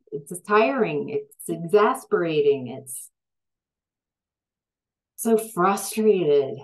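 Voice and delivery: worn-out exasperation, pushing the key words; real frustration. Real, not acted. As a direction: let the frustration build, stressing each complaint. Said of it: "can you tell I'm getting, like, frustrated?".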